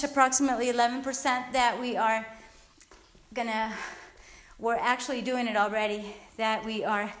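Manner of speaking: breathless after pull-ups; talking out of breath. Real, not acted. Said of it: "I'm a little bit out of breath".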